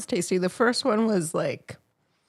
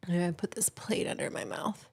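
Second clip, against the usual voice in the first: whispering; 12 dB quieter than usual. Real, not acted. Whispering aside while eating.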